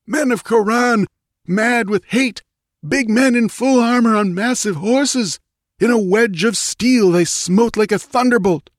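high, frantic battle report; yelling. A narrator's reading. Wounded priest tells the queen of the rout, yelling. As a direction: keep it pitched high and desperate throughout. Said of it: "yelled the priest".

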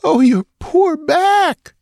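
high, slow, grieving wail; a high slow wail at his torn back. Acted. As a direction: draw it out high and slow, lamenting. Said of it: "she wailed".

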